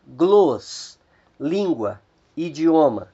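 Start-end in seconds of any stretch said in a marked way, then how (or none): 0.1-1.0 "gloss" clipped out on its own; stressed syllable shown. Shown as a demonstration. Teacher cutting off the stressed syllable for students. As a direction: isolate "gloss" as the strong syllable. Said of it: "a primeira sílaba".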